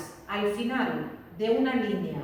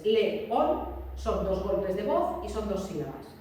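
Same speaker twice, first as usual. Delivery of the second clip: León said slowly in two beats, le-ón; slow teaching demo; slow syllable demo; slower than usual. Shown as a demonstration. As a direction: tap out dos golpes de voz deliberately. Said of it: "es así".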